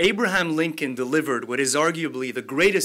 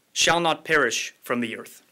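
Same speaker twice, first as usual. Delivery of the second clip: solemn oratory. Acted. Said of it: "as I read the ten sentences".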